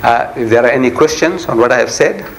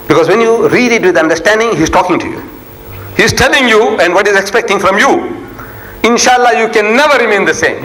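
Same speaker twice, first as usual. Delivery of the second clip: raised, insistent sermon voice; emphatic preaching; 5 semitones higher than usual. Real, not acted. Preacher urging listeners to let Allah talk to them, emphatic preaching. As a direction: drive each point home with weighty stresses.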